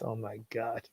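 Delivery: half-hearted mock sinister voice. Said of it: "now you're making me do my sinister voice".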